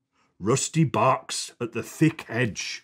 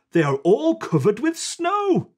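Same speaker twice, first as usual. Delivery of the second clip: higher, lightly voiced farmhand; lightly voiced Ted; 10 semitones higher than usual. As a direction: tell the children gently. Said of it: "says Ted".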